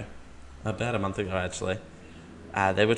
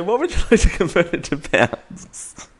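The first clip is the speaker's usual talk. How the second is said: higher and louder robotic assistant; Siri impression; 7 semitones higher, 6 dB louder than usual. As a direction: mimic the phone assistant, louder. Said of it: "Coruscant Siri".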